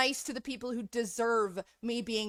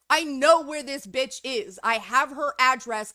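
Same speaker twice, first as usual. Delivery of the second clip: furious rant; 7 dB louder than usual. Real, not acted. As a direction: spit each word out, barely holding back. Furious rant at online critic.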